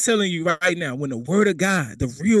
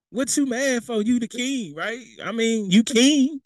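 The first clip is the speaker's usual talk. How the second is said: raised, mock-puzzled teasing; teasing the king; 6 semitones higher than usual. Preacher teasing King Ahab, mock puzzled. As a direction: needle the pouting king, pitched up. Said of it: "talking to sulking king".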